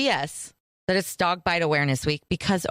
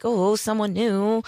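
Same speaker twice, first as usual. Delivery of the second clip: higher, drawn-out excited "oh"; excited dog; 4 semitones higher, slower than usual. Acted. Woman voices her dog meeting someone new, excited. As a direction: voice a mildly excited dog greeting a stranger. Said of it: "she gets real excited".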